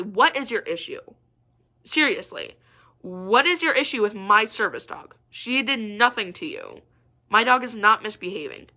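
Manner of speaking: understated indignant confrontation; mild exasperation, firmly put; imagined snap. Retold or imitated. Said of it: "I was about to snap at her".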